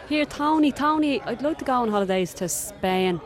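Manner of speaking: put-on Dublin accent. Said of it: "so I'm gonna use a Dublin accent".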